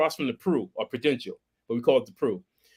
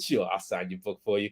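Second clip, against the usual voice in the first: imitating Stephen King; 10 semitones lower, 10 dB quieter than usual. Stephen King voiced in story.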